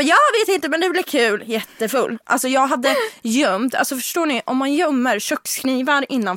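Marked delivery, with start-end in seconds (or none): 0.0-1.4 carefree reply. Retold or imitated. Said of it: "Jag bara".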